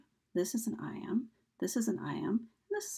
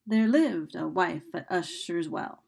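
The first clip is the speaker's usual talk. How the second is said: "lived", "wife", "Ush" and "Well" stressed in alternation; iambic stress; 4 dB louder than usual. Shown as a demonstration. Teacher showing marked accents in a poetry line, iambic stress. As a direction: stress every second syllable of "there lived a wife at Usher's Well". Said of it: "so this is how you mark the different accents".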